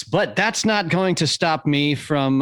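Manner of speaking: ordinary talk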